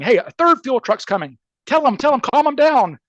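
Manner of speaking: high-pitched, imitated urgent pleading; retold urgency. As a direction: urge someone to pass it on, pitch climbing. Retold urgent phone call to calm him.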